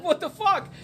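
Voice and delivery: high laughing what the fuck; mock laughing outrage; laughing disbelief. Stranded, laughing.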